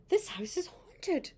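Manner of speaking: a touch of fear, drawn out; scared mum. Acted. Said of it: "said the mum".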